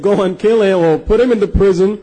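mildly angry retold order; a touch of imitated anger; angry ruler. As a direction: act out a stern ruler's order. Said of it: "the ruler got angry and said".

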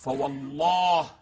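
slow, drawn-out intoned oath; recited oath. Shown as a demonstration. Lecturer quoting the Imam's oath to the host, slow intoned recitation. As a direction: draw the oath out slowly, as scripture. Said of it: "فوالله، يقسم علي أمير المؤمنين".

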